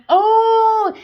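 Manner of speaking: a sharp high outraged oh, loud; outrage bursting out at the insult; indignant oh. Real, not acted. Reader scoffs at being called a fanatic, outraged.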